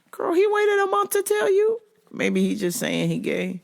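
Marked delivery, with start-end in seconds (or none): 0.1-1.8 high sassy disbelief. Retold or imitated. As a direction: play it scandalized and sassy. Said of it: "I was like".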